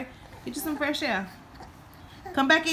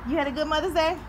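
high pet voice; 6 semitones higher, faster than usual. Real, not acted. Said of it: "I know my voice is annoying".

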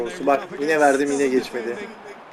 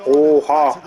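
shocked exclamation; 5 dB louder than usual. Real, not acted. Ball bounces oddly.

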